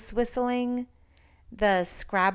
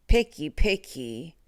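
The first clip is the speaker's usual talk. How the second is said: complaining; 4 semitones lower, 4 dB louder than usual. A narrator's reading. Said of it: "Herbert complained".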